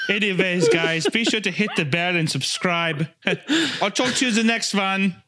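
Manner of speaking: put-on lightly German-accented sign-off; breezy influencer outro; Hitler as vlogger. Vlogger asking viewers to subscribe, casual German-accented sign-off.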